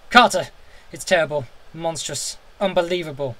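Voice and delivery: loud, panicked calling out; frenzied cry. A narrator's reading. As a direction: yell it in a frenzy of terror. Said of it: "frenzy tones again".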